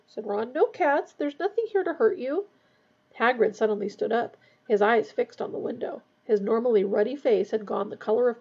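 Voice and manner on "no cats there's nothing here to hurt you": high, coaxing reassurance; gentle coaxing, as to a small animal; soothing. A narrator's reading. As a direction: comfort a scared pet in a raised pitch. Ron soothes his frightened rat.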